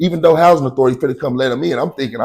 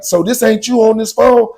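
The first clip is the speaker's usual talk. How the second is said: smug cop question; 9 semitones higher than usual. Retold or imitated. Cop retold confronting him.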